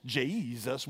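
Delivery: Jesus stretched into four syllables; drawled country Jesus. Shown as a demonstration. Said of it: "If you said it in four syllables".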